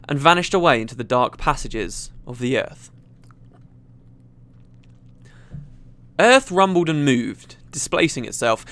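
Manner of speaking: measured, dramatic storytelling; story narration. A narrator's reading. Gamer reads a fantasy story to viewers, dramatic narration. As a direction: read it out like a tense adventure tale.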